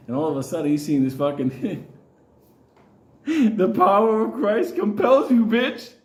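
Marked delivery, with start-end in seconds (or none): 3.3-5.9 louder, slower, hammed-up priest intoning; Exorcist priest. Kid watching the Exorcist, mock-intoning the priest's command. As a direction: boom it out like the exorcist.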